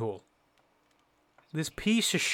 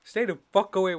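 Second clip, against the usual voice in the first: calling out; 6 semitones higher, 5 dB louder than usual. Real, not acted. Calling out to Bella.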